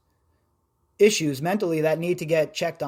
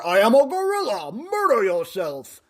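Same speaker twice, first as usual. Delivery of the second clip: mock unhinged broadcaster rant, higher and slowed; Alex Jones impression; 4 semitones higher than usual. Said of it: "I'd look like Alex Jones".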